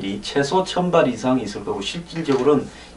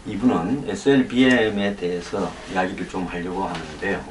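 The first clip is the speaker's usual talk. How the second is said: numb mouth after dental anesthesia; slurred, numb lips from anesthesia; numb from the dentist; 3 semitones lower than usual. Real, not acted. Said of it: "아직 마취가 안 풀려서 발음이 좀 시원찮다". (마취가 덜 풀린 입으로 말하기)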